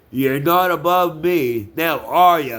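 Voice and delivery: loud, raw defiance at his father; real anger. Real, not acted. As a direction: throw it right in his face. Furious rant at his father.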